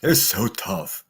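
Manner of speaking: slow, mocking "They're so tough."; deadpan sarcasm, slowed right down; sarcastic slow drawl. Real, not acted. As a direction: drag out "They're so tough." to ridicule them. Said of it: "mock echo of their toughness".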